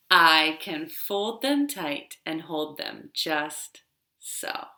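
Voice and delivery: rhythmic rhyme chanted for toddlers; finger rhyme. Acted. Librarian leading toddlers through a finger rhyme, sing-song.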